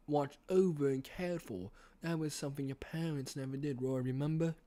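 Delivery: put-on British accent; lightly acted British character; William Afton. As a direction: persuade in a British villain voice. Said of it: "do my best William Afton impression".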